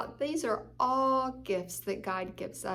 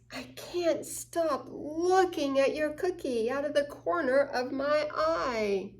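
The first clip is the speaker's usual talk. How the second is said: envious longing; 4 dB louder than usual. Acted. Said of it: "Envy means".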